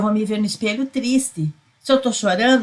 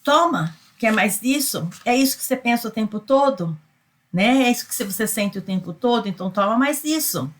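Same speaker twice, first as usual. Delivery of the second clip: voicing the universe; 2 semitones higher than usual. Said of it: "o universo faz assim".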